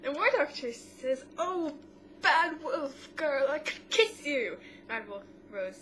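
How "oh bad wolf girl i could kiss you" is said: delighted exclaim. Retold or imitated. War Doctor voiced elated.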